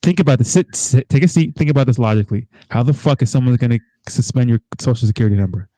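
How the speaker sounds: loud exasperated disbelief; loud frustrated rebuke to sister. Retold or imitated. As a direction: yell at her in disbelief. Lecturing sister loudly.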